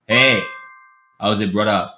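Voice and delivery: attempted Hawaiian pidgin greeting; Hawaiian pidgin impression. Recalling a failed try on a Hawaiian friend, amateur pidgin accent. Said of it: "I tried to do it".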